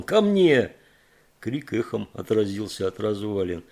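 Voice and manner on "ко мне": high, loud hoarse call; loud hoarse shout; hoarse yell. Acted. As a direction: yell the dog's name till it rasps. Calling the dog.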